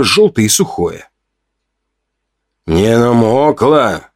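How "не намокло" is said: slow, careful question with awe; cautious, reverent. A narrator's reading. Young helper asking about the tinder, cautious and reverent. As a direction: ask very slowly, as if over something precious. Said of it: "осторожно спросил Сови с каким-то благоговением".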